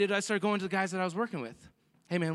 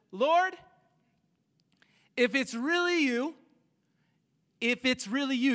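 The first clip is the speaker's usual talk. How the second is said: raised, questioning call; calling out, unsure; 5 semitones higher than usual. Acted. Peter calls to the figure on the water, unsure call. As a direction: call it higher, testing who is there. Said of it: "Then Peter called to him".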